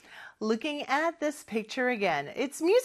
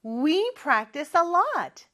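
a slightly louder classroom chant; 2 semitones higher, much slower than usual. Shown as a demonstration. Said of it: "큰 목소리로 해볼까요?".

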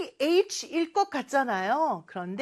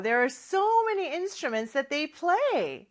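slow English read-out; 4 semitones higher, much slower than usual. Shown as a demonstration. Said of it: "teacher reads English slowly".

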